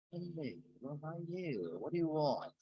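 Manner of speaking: odd put-on phone voice, teasing his daughter; strange voice. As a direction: answer the call in a weird disguised voice to prank her. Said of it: "I used a very strange voice talking".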